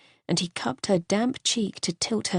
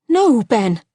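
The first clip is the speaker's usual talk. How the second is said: louder, higher, desperate no; anguished cry; 4 semitones higher, 8 dB louder than usual. Acted. Wife refusing the news of his cancer, anguished cry. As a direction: refuse to accept it, crying out.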